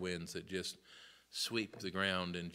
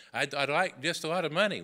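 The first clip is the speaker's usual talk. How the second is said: greedy sinner whine; 6 semitones higher, 9 dB louder than usual. Retold or imitated.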